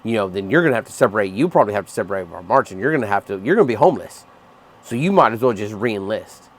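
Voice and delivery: sneering impression of a slick recruiter; mock passive aggressive threat. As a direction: parody a passive aggressive pitch to re-enlist. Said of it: "passive aggressive threat bullshit".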